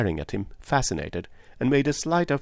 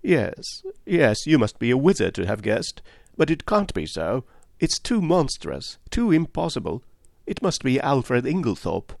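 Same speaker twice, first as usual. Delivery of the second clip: agitated woman, higher voice; Miss Howard; 5 semitones higher than usual. Acted. Woman fights her own suspicion, agitated. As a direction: resist the truth.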